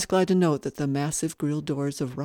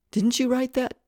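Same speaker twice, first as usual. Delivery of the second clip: sharp, louder demanding question; a ghost cornering the poet; 8 semitones higher, 7 dB louder than usual. A narrator's reading. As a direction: press him hard for an answer. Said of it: "she demanded".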